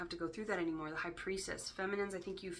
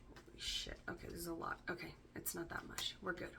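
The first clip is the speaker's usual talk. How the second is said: shocked whisper; 10 dB quieter than usual. Real, not acted.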